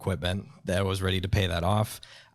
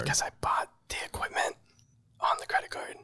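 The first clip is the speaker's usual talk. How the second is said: hushed, whispery confession; sheepish admission; 6 semitones higher, 5 dB quieter than usual. Real, not acted. Guest admits putting equipment on the card, hushed. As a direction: admit it softly, almost without voice.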